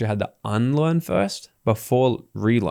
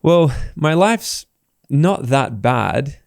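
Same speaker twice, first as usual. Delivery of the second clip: complacent inner voice; 2 semitones higher, much slower than usual. Retold or imitated. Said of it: "people look at that and go".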